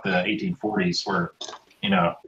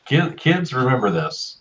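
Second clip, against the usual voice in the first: mock preacher; 7 semitones higher than usual. Mock fatherly advice to kids.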